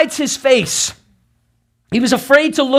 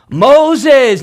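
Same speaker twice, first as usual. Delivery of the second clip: second call, louder and more urgent; a firm summons, you mean business; 4 semitones higher, 5 dB louder than usual. Retold or imitated. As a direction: call out the name sharply. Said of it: "he hears this call".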